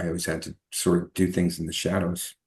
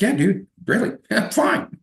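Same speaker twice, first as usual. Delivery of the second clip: much higher, laughing through the words. Retold or imitated. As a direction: brush it off with a laugh. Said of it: "I was like".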